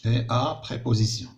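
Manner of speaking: Et à préposition read very slowly; slow classroom reading; slow dictation. Shown as a demonstration. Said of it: "هذيك اللي شفنا دابا préposition".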